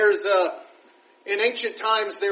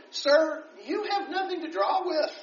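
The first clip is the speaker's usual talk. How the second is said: higher, dripping with doubt at the start; sarcastic; 4 semitones higher, 3 dB louder than usual. Acted. Samaritan woman mocking Jesus at the well, sarcastic. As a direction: scoff at the stranger's offer. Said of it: "you can just kind of hear the sarcasm just dripping off her lips".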